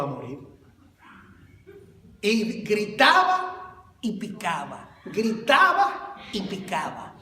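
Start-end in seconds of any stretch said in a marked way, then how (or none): 2.2-7.1 amused retelling. Retold or imitated. Rat story, half laughing.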